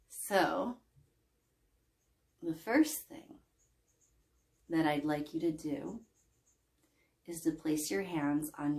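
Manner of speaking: unhurried guided-imagery voice with long pauses; guided relaxation. Acted. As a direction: ease listeners into breathing, phrase by phrase. Begins leading guided sleep imagery.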